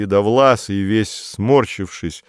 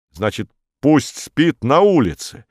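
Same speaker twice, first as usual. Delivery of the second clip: spiteful; 6 semitones higher, 4 dB louder than usual. A narrator's reading. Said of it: "злобно спросил Корнеев".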